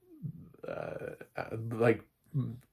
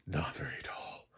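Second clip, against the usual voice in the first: hushed aside; 3 semitones lower, 6 dB quieter than usual. Real, not acted. Mock aside on short stars.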